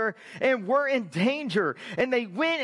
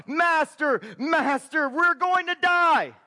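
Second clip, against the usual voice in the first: mock panicked scream; 4 semitones higher than usual. Preacher voicing terrified disciples, a raised panicky cry. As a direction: shout it like frightened fishermen in a storm. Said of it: "and they scream out".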